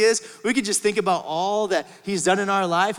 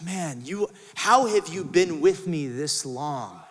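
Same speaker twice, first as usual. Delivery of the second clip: tender plea; 4 semitones lower, much slower than usual. Acted. Father gently asking the older son how he missed his heart, tender.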